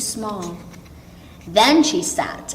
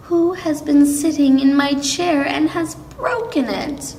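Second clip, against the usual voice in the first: put-on higher Baby Bear voice; tiny little voice; 6 semitones higher than usual. A narrator's reading. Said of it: "he asked in a tiny little voice".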